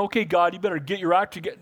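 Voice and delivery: fast, pushy mock demand; imitating a bossy prayer. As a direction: rattle it off like ordering God around. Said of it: "We don't make demand".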